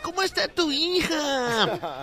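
slow, drawn-out lady voice; woman boasting about her daughter; chatty lady. Acted. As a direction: gossip sweetly in the park. Joke: ladies chatting, slow.

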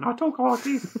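put-on New Zealand accent for a laugh; playful mock-Kiwi voice; jokey Kiwi accent. Shown as a demonstration. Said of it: "I kind of do this jokey Kiwi accent".

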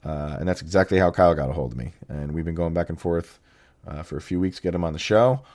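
rough, raspy voice from being sick; deep soul-singer voice. Real, not acted. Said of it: "my soul-singer-esque voice that I have going on right now".

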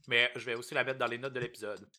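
talking through a mouthful of chocolate; chewing chocolate while reading the address; mouth full. Real, not acted. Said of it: "je mange du bon chocolat".

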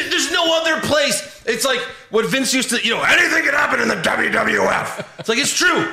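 excited. Real, not acted. Hyping wrestling's chaos, near shouting.

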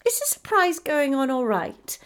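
anxious. A narrator's reading.

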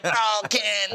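high, mock-adoring sigh of a line; Wormmon. Wormmon answers Ken's abuse, mock-adoring. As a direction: lightly put on a devoted sidekick. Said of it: "I'll always be there for Wormmon".

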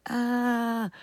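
strained throat cry. Shown as a demonstration. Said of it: "like, that hurts".

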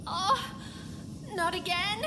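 alarmed. Acted. Patient alarmed by her body.

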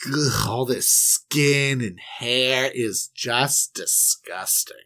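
slow, trailing into a disgusted voiceless whisper; mock disgust. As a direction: recoil as if grossed out. Disgust at nudity.

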